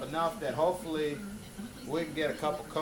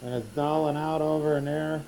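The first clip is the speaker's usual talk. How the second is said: muffled through a breathing mask. Real, not acted. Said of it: "Sorry if it's muffled, I got my breathing mask on".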